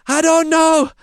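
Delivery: high, loud, very slow put-on voice; hammed-up clueless beekeeper, dragging the words out; beekeeper Simon. Simon giving up and telling him to flee, high slow hammed voice. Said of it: "He says".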